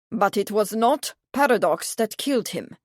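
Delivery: sternly stressed NOT; stern emphasis. A narrator's reading. Prince denying the horse's blame, stern emphasis on "not". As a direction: lean firmly on "not". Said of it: "he added with a stern emphasis".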